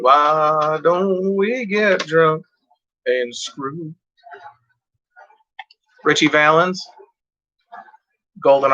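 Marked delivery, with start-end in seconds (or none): 0.0-3.9 slow, drawn-out crooning of the lyric; Burt Reynolds line. Retold or imitated. Quoting the song to viewers, slow crooning. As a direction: stretch it out slowly like the record. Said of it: "like the Burt Reynolds thing".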